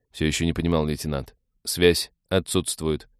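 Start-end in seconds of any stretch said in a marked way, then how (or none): 1.6-3.1 slow, even machine voice; lightly voiced robot, slowed down; metallic cyborg voice. Cyborg Dex answers.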